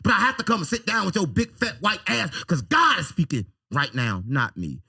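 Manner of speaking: rising heated insistence; calm turning angry. Real, not acted.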